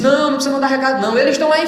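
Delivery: high, loud forceful reply; a retold loud, insistent no; said very strongly. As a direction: call it out loud so those outside hear. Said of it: "bem forte".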